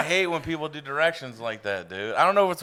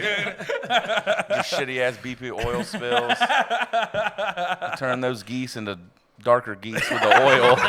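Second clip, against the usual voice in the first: laughing mock rant; much slower than usual. Real, not acted. Mocking Galveston oil spill, laughing.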